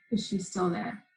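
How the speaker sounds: a mother gathering herself, asking softly; quietly composed. Retold or imitated. Mother asks daughter after a deep breath, quietly composed.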